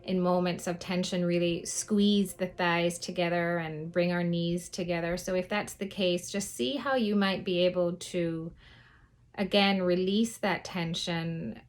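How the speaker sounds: lingering on phrases, leaving space to breathe; guided meditation. Acted. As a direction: guide listeners gently through breath and body, unhurried.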